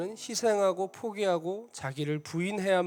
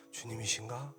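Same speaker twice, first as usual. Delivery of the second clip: much softer, lower, questioning wonder; trembling awe; 6 semitones lower, 11 dB quieter than usual. Retold or imitated. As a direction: ask it trembling with holy fear. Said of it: "덜덜덜덜 떨리더라고요". (떨리는 경외감으로 훨씬 작게)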